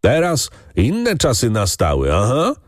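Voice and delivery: a touch of a defiant call. Acted. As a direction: throw it out boldly from the crowd. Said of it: "wołał drugi".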